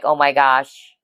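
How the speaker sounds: usual speaking voice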